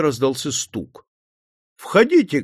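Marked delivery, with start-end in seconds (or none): 1.8-2.4 higher call toward the door. A narrator's reading. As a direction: call them in through the door. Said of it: "крикнул Путилин".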